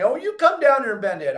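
impersonating customers yelling at the captain; mock demanding customer. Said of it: "people used to yell at me".

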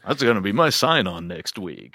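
put-on laughing through an old film star voice; slow, lightly voiced fifties star; old movie star voice. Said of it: "Kinda sounds like Sulu".

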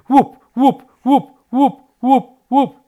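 high, loud, evenly spaced thumps; loud pecking noise. A narrator's reading. Woodpecker hammers above rabbit, loud high bursts. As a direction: knock out each word sharply. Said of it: "plama zaczęła robić łup".

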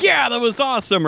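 high-pitched fan cheering; worked-up, high-pitched enthusiasm; excited fan. Retold or imitated. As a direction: imitate yourself as a thrilled fan. Acted hot-and-cold fan reaction.

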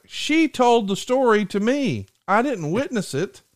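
high-pitched insistent comeback; acted-out self-justifying protest; retold defensive protest. Retold argument, defending himself.

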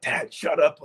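mock-urgent shushing of a parent; retold embarrassed hushing. Retells hushing his embarrassing dad.

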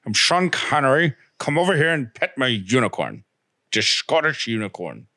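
lightly attempted Scottish accent; a hint of badly faked Scottish, hammed up; Sean Connery. Co-host invites host to pet unicorn, amateur Scottish. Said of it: "something in a Scottish accent".

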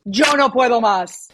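native Spanish model line; feed the line in a Spanish accent. Shown as a demonstration. Prompting co-host with the phrase, Spanish accent. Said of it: "a phrase in Spanish".

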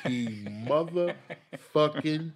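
slow, laughing oh no; laughing disbelief. Retold or imitated. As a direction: drag it out through laughter. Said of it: "I was like".

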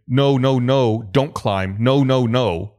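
a restrained imitation of shouting; mild retold shout. Captain shouts at Bonin over the stall, retold as a mild shout. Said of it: "he shouts at him".

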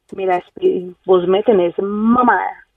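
mock-furious rant at a coworker; playful mock insult. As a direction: tell him off like he really gets on your nerves. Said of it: "Agarra a Spirit y insúltalo".

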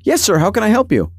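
startled bright reply; suddenly alert. Retold or imitated. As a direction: snap awake and sound eager. Agent jolts awake, acting alert.

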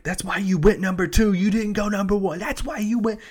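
high, loud mock trash-talk yell; imitated yelling. Mavs player taunting an opponent mid-game, imitated yelling. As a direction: retell it as a high-pitched heckle. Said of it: "yelling at".

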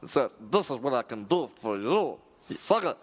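amateur reggae-star pitch; a singer. Acted. Host tries his coached voice, rough impression of a singer. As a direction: offer it in the put-on voice. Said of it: "I think I could do Shaggy".

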